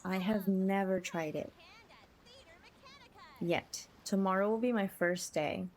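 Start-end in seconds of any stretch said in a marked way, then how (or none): none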